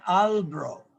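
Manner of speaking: Albro squeezed into two syllables; Canadian mispronunciation. Retold or imitated. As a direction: clip the name to Albro. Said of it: "no podían pronunciar mi nombre".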